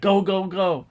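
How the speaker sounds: high, quick-fire rallying call; play-acted action-hero send-off; mock urging.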